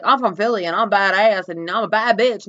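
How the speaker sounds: lightly voiced swaggering boaster; mock Philly attitude. Philly transplants bragging in South Jersey, mocking attitude. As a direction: mimic a self-declared badass, dragging the last boast. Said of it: "same kind of attitude".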